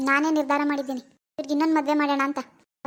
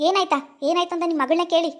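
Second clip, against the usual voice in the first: irritated, raised-pitch retort; angry. Acted. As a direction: snap back in exasperation. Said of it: "ನಿನ್ ಗಂಡ ಅಷ್ಟ್ ಕೋಪ ಮಾಡ್ಕೊಂಡಾನೆ". (ಕೋಪದಿಂದ ಸಿಡುಕಿ)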